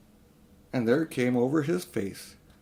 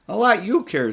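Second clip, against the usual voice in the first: louder, higher fierce retort; fiercely; 9 semitones higher, 6 dB louder than usual. Acted. Diggory fiercely retorting to his uncle. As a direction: spit it at him. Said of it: "said Diggory fiercely".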